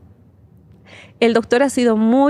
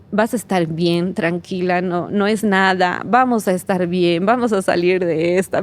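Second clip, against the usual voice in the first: gentle reassurance; 2 semitones lower than usual. Retold or imitated. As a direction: soothe her like a mother hiding her own fear. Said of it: "ella era alentándome a mí". (mamá consolando a su hija, con voz suave y tranquila)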